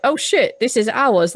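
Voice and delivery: mildly hammed-up delight; happy, excited. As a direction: imitate the crew's excited discovery. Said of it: "they get really happy and excited".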